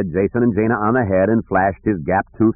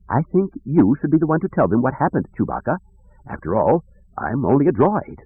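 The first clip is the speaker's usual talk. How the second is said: high, prissy droid voice; fussy droid, reluctant; 6 semitones higher than usual. Acted. Droid tells Chewbacca to report, fussy and reluctant. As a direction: pass the duty on in a lifted voice.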